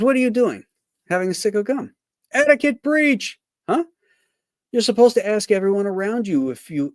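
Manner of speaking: ribbing a friend over etiquette; scolding golf buddy. Acted. Reading comic strip dialogue.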